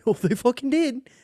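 high, loud indignant cry; loud shocked outburst; outraged yell. Real, not acted. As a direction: blurt it out in disbelief. Outraged at surprise deaths.

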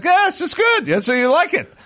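put-on high, unbothered accented driver; apathetic Hispanic accent. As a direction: shrug it all off in accent. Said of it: "the apathetic Hispanic".

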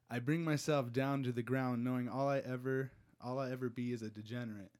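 measured reading in phrases with pauses; poem recital. Acted. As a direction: recite your own poem, line by line.

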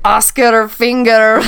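botched Scottish or Irish accent, slow. Shown as a demonstration. Trying the name on request, bad Irish accent. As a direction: try an Irish accent and mangle it. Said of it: "like, a Scottish or an Irish accent".

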